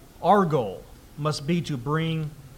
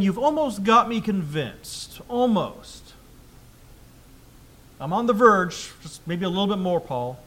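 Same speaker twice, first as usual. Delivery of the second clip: almost persuaded. Shown as a demonstration. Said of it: "what is the right way to read this verse out loud".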